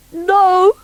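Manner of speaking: high, funny little creature voice; bunkie's voice. Acted. Bunkie telling Noddy about himself, high creature voice. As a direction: squeak it out like a hurt half-rabbit.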